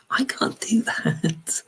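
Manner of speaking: breathless, half-laughing whisper. Real, not acted. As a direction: gasp it out in disbelief. Aghast at extreme request.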